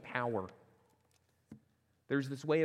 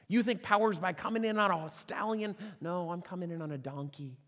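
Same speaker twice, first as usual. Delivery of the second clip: preaching climax; 5 semitones higher, 3 dB louder than usual. Real, not acted.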